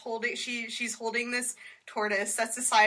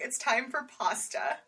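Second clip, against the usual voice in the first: slower, drawn-out craving line; corrected mock declaration; 2 semitones higher, 4 dB quieter than usual. Corrected quote to friends, slowly savoring the craving. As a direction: announce pasta time with relish. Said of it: "No, I didn't even say that".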